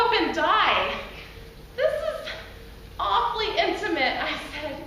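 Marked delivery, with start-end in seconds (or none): 1.8-4.2 high, uneasy complaint; mild high-pitched discomfort; squirming protest. Acted. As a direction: object politely but nervously. Squirming woman protests to Bob.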